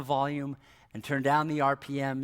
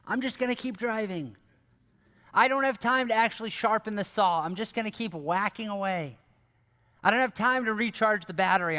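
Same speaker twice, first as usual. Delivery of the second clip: mock excuse-making; 4 semitones higher than usual. Mock excuses of busy people.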